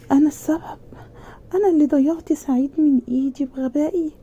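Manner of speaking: high, strained voice near tears; tearful self-blame. Retold or imitated. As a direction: blame yourself, close to crying. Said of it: "وقعدت أعيط".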